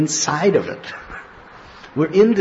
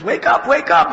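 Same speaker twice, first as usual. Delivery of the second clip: high, louder shouted call; calling to wake; 11 semitones higher, 5 dB louder than usual. Retold or imitated. Devotees shouting to wake the dreamer. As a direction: shout him awake urgently.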